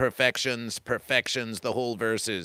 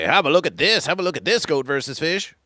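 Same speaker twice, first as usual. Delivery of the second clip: higher, louder, proud presenter; mock eager showing-off; 5 semitones higher, 5 dB louder than usual. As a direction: show it off eagerly, pitch jumping. Fence sitter showing off a creation.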